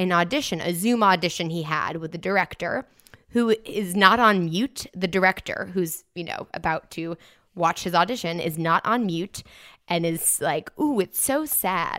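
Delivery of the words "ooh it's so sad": bad put-on British accent, slow and drawn out. Retelling what an unmuted director said before an audition, in a bad British accent. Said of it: "it's a British accent".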